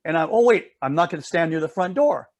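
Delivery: a hint of a nervous little girl; worried little girl. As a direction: play the good daughter fretting to her sister. Sandra voiced in the story.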